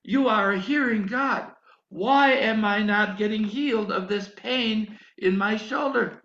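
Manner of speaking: loud, pleading cry to God; desperate prayer. Retold or imitated. Preacher reliving his plea to the Lord, loud and desperate.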